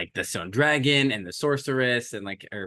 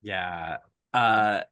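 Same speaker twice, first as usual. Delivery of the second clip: ordinary talk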